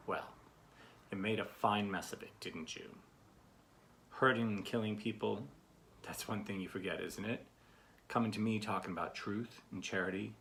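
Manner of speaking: lightly acted reproachful father; a hint of a dad telling off grown children; lecturing dad. Dad giving his adult children a bit of a lecture, mildly reproachful. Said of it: "this is a dad who's, uh, giving his adult children a bit of a lecture".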